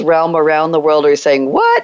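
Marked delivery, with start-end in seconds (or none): 1.5-1.8 mock outrage.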